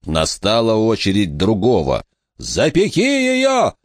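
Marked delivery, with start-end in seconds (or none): 2.4-3.7 very high, drawn-out cry; anguished, slow high command; desperate scream. A narrator's reading. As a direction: scream it high and stretched, volume held back. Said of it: "закричал он".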